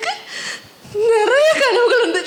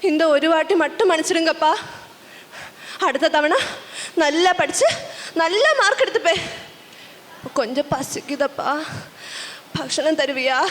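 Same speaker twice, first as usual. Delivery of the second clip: put-on subdued, apologetic child; small, hungry plea, trailing softer; pleading child; 2 semitones lower, 4 dB quieter than usual. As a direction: plead meekly with a stern parent. Child begs parent forgiveness, food.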